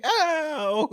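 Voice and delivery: high, loud laughing imitation of a yowling cat; mock cat yowl. Imitating the cat's screams.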